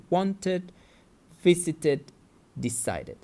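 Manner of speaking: "wanted, visited, decided" with -ed as a full extra syllable. Shown as a demonstration. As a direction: say each of "wanted, visited, decided" separately, ending in "id". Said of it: "we pronounce the E D like id".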